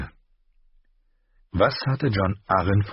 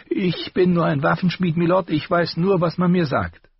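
higher, sharper armourer voice; the master's voice; 12 semitones higher, 4 dB louder than usual. A narrator's reading. Armourer rebuking his apprentice, higher voice. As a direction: scold the boy in a raised voice.

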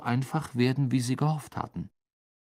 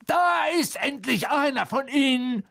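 high, raised, relieved exclamation; excited; 13 semitones higher than usual. A narrator's reading. Ron thinks he sees a Slytherin at last, excited. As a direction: announce the long-awaited find. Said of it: "sagte Ron aufgeregt".

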